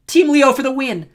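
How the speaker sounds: high, loud cheering yell; echoed shout. A narrator's reading. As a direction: shout it back as the biggest fan. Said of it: "Echo shouted".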